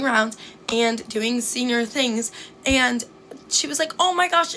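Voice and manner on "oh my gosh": higher and louder gushing gasp; excited squeal. Retold or imitated. Senior girl introducing the freshman, excited. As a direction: gush like a thrilled senior girl.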